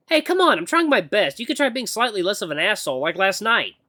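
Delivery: high-pitched, indignant complaint; exasperated heroine. Acted. Acolyte scolding her moody mentor, exasperated.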